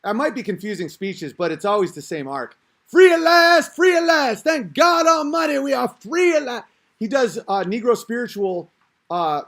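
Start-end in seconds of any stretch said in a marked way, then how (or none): 2.9-6.6 booming, high preacher climax; big shouting finish. Retold or imitated. Comic showing how the speech ends, shouting. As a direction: let it thunder like the end of a great speech. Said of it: "He ends with".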